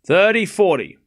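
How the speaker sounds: Thirty forty called out with a lift of excitement; excited score call. Real, not acted. Repeating big break point.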